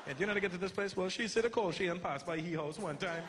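sing-song Trinidadian directions; a hint of Trinidadian lilt; Trinidadian accent. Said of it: "that sing-songy accent".

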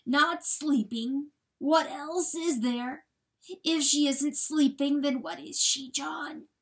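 high, slow, pressing questions; distraught pleading. A narrator's reading. Coyote demanding what Rachel is, distraught pleading. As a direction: question desperately, refusing to understand. Coyote refuses to understand death.

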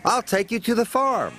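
breathless engine coaxing the sheep; panting. A narrator's reading. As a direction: keep calling, out of breath. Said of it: "Thomas panted".

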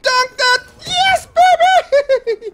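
high triumphant yell; yelling across the room. Real, not acted. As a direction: shout it in victory. Celebrating another dunk.

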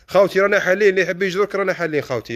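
market-stall shout to anyone passing; calling out. Real, not acted. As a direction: call the passers-by in to the stall. Calling out to passers-by live.

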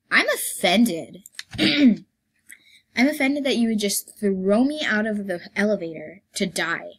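slow, loud hammed-up indignation; dramatic fake offence; mock offended. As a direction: play the wounded diva. Mock outrage at elevator.

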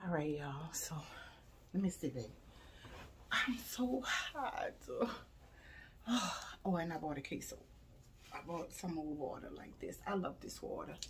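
soft, breathy near-whisper; low-energy murmur, too hot and tired; talking low. Real, not acted. Telling viewers she's drained, talking low. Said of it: "I'm talking low because".

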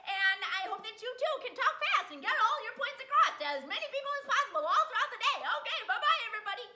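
cheerful, giggly goodbye; bright rising bye-bye; bubbly sign-off. Real, not acted. Upbeat sign-off.

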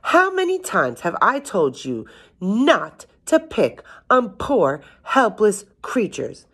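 high-pitched, emphatic motherly scolding; scolding yell. A narrator's reading. Mother scolds the giant for picking on animals, yelling. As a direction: scold high, spacing out the last words. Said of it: "she yelled".

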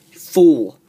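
scornful yell at a wrestler; loud scornful shout. Real, not acted. Insulting Cena.

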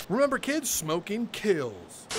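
slow, preachy mock warning; mock PSA voice. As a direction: deliver it like a cheesy PSA. Mock public service announcement.

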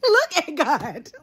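powtórzone ze śmiechem, wolniej; zaśmiej się i powtórz to wolno; laughing repeat. Real, not acted. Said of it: "repeated with laugh".

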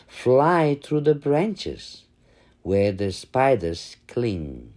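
lilting sing-song poem reading; children's rhyme. Acted. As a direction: chant the rhyme to little kids. Recites a butterfly rhyme.

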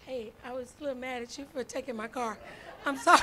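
sheepish apology through laughter; laughing apology. Retold or imitated. Preacher retelling her apology to Walter, laughing. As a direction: giggle through a half-sorry.

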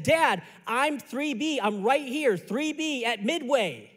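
slow, insistent mock exasperation; exasperated son. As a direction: spell it out to dad, dragging the words. Acted argument with dad on phone.

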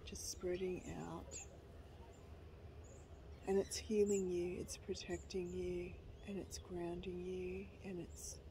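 gentle, even meditation voice; guided meditation. Real, not acted. Leading viewers through a short guided meditation, calm guiding voice. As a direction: guide them calmly, pausing between phrases.

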